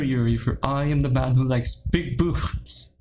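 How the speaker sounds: a hint of a pompous knight rescuing Yuri; mock hero. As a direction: ham it up as a gallant hero. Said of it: "be like".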